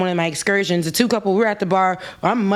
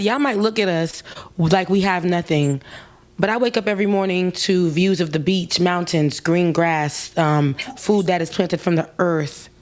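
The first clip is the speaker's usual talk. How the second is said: calm bartender; 3 semitones lower than usual. Retold or imitated. Bartender's calm wise reply.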